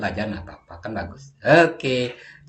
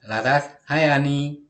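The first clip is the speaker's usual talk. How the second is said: hai drawn out and stressed, slow; slow model reading; 2 semitones higher, slower than usual. Shown as a demonstration. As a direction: read the greeting slowly for the class. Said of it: "Intonasinya bagus juga".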